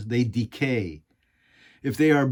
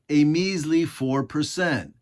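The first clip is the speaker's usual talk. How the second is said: "a measly four percent" said slowly, leaning on "measly"; emphatic repeat; slower than usual. Real, not acted. To his audience, hammering home the small figure, slow and emphatic. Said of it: "Let me repeat that".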